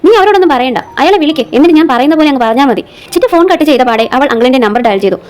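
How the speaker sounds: measured audio-story reading with lightly voiced dialogue; story narration. A narrator's reading. Reads an episodic story aloud. (കഥ വായിച്ചു പറയുന്ന ശൈലി)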